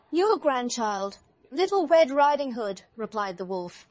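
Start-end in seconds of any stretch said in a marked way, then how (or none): 0.1-2.8 high, loud, slow mock-girl voice; counterfeit girl's voice. A narrator's reading. Wolf poses as grandchild at the door, high counterfeit voice. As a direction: pretend to be the granddaughter, pitched up. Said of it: "counterfeiting her voice".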